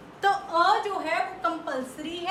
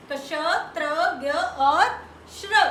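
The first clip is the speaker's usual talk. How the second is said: drilling aloud; 5 dB louder, faster than usual. Shown as a demonstration. Teacher drilling conjuncts with the class, loud. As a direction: ring out श्र like a drill. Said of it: "drilling the four conjuncts".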